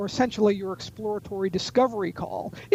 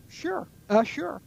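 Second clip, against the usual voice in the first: bad tonality; 6 semitones higher, slower than usual. Shown as a demonstration. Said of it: "bad tonality".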